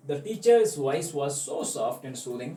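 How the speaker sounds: slow, deliberate English read-aloud; slow story reading. A narrator's reading. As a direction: read each phrase slowly like a storybook. Reading story text aloud slowly.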